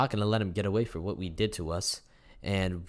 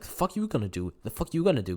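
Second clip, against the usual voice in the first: lightly acted challenge, second take higher; confrontational; 4 semitones higher, 3 dB louder, faster than usual. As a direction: imitate a friend squaring up. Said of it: "Being all confrontational with him".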